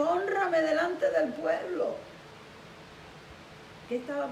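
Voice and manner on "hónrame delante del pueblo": higher, drawn-out entreaty; beg, stretching the words; pleading. Retold or imitated. Saúl begs to save face, pleading. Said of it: "dice la Biblia que le rogó".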